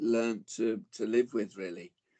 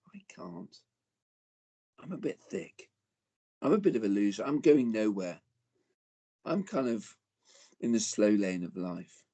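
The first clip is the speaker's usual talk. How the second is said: defeated inner voice. Retold or imitated. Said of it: "speak over themselves with a sense of".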